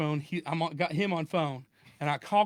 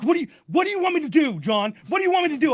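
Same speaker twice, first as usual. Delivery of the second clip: much higher and louder, fake-flustered pleading; mock panic; 10 semitones higher, 7 dB louder, faster than usual. Victim faking panic at the angry scammer, high pleading. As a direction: play the anxious victim to wind him up. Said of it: "he's getting angry".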